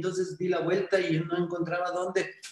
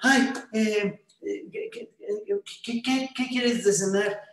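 higher, halting stammer, hunting for words; nervous stammering; 4 semitones higher, slower than usual. Acted. Nervous young man stammering at his date, higher and halting. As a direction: trip over every word like a shy suitor. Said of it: "no sabía ni qué decirse".

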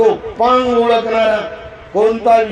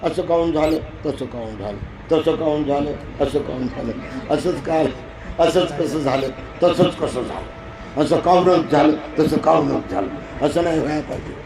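low, soft muttering of someone stuck on regrets; brooding over the past; 4 semitones lower, 5 dB quieter than usual. Retold or imitated. Preacher mimics a listener who dwells on the past, quietly muttering. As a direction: mumble the what-ifs under your breath, lower and quieter. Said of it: "भूतकाळात जर तुम्ही जगलात".

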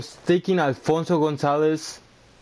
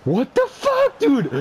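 furious shriek; 12 semitones higher than usual. Real, not acted. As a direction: scream it in rage. Gamer furious at play.

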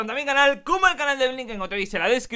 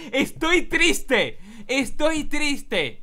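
drawn-out, higher-pitched mock pout; mock sad; 5 semitones higher, much slower than usual. Cat player sends a sad face, theatrically sad. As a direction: play up the sadness, very slowly. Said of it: "Le voy a poner una carita triste".

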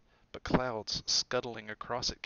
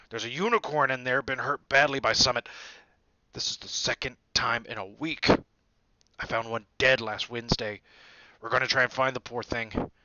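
loud, hearty gamekeeper; brief the kids with rough urgency; Hagrid instructing; 7 dB louder than usual. A narrator's reading. Hagrid's voice held.

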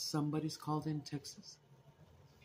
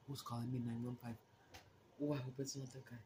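usual speaking voice

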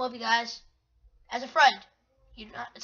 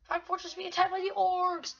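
higher, sustained alert voice; mock announcer; 5 semitones higher than usual. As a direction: announce the attack like a game alert. Reads game alert, then dun dun.

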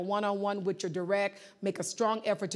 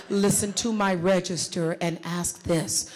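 slow, caressing delivery; 4 dB louder, slower than usual. Shown as a demonstration. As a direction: let the voice stroke each word. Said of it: "You see how the re-, the voice caresses".

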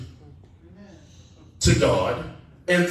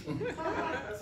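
soft, high chuckle; short laugh; 11 semitones higher, 15 dB quieter than usual. Real, not acted. Preacher amused by pastor's efficiency line, short laugh. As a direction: let out a small high laugh.

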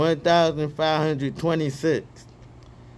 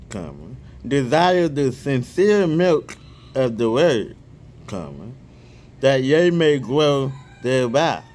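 scripture reading. Real, not acted. Reading First Peter aloud to his viewers, measured scripture reading.

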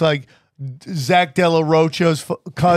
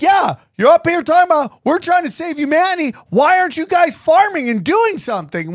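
fast, high ranting heckler; mock-indignant heckler tirade; aggressive heckler; 11 semitones higher than usual. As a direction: rattle off the farmer's accusation, pitched way up. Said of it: "it starts to get really aggressive".

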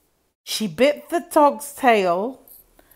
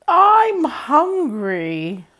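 bird voice; 6 semitones higher, 4 dB louder, much slower than usual. Acted. Bird speaks.

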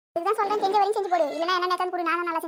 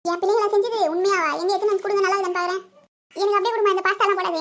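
louder, delighted surprise; excited mother; 2 semitones higher, 5 dB louder than usual. Acted. Mother amazed her children cooked, louder and delighted. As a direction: burst out pleased at the children's cooking.

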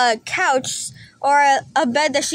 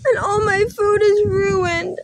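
higher, mock-tearful complaint; dismayed whining; 5 semitones higher than usual. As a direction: lament the storm damage like a doll in distress. Doll laments flooded sink and food.

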